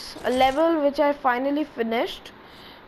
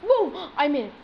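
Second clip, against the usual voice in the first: triumphant boom; 2 semitones higher than usual. Real, not acted. Triumphant after landing jump.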